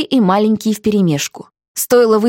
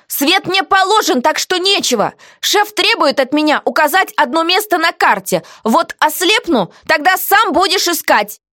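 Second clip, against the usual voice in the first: heroine's quoted voice, higher; defiant heroine; 8 semitones higher than usual. Acted.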